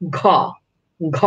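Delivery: voiced ঘ with a breathy release; aspirated ঘ demo. Shown as a demonstration. Teacher demonstrating breath on ঘ, aspirated release. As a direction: let air burst after ঘ. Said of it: "উচ্চারণ করেন".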